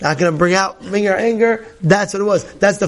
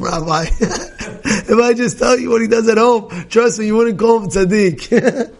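laughing through it; 3 semitones higher than usual. Retold or imitated. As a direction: quote broken by real laughter. Wife's quote repeated through laughter.

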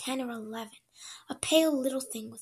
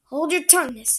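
sharp scolding; 3 semitones higher, 9 dB louder than usual. Acted. Cook scolds maid.

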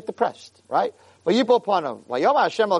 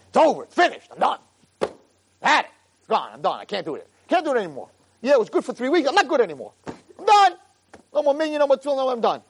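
a mildly voiced despairing young man, pitch rising; despairing guy; 5 semitones higher, faster than usual. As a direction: whine it like someone giving up. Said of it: "One guy always tells me".

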